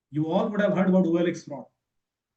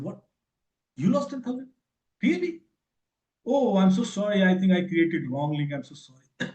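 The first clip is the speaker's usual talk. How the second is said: calm mock sympathy; 3 semitones higher, 3 dB louder than usual. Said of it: "very cool and calm".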